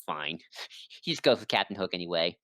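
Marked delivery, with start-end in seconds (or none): 0.1-0.4 low, subdued giving-in; quiet. Retold or imitated. Riku giving in to Maleficent, quiet and low. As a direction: drop it down, quietly conceding. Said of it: "is quiet, like".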